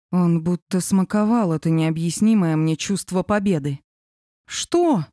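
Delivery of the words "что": high, scornful snort; snorting what. A narrator's reading. Sophie snorting at Lev, defending herself. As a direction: scoff defensively. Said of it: "фыркнула я".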